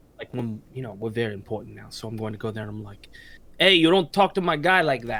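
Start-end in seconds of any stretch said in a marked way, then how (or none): 3.6-5.2 loud, put-on Italian gangster tough-guy accent. Warning someone off in an italian voice being worked on: italian gangster voice. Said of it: "I've been working on an Italian thing".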